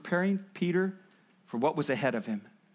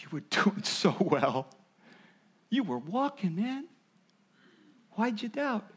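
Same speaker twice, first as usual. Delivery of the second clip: gentle encouragement; 3 semitones higher than usual. Retold or imitated. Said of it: "he just put his arm around him".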